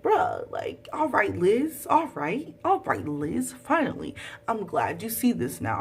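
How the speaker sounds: finally-relieved cheer; exasperated relief. Retold or imitated. Fan reacting aloud to Liz's change, exasperated.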